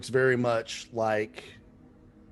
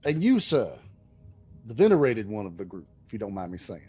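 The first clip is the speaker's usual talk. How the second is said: friendly abbot voice; 3 semitones lower, faster than usual. Acted. Abbot addresses the elder.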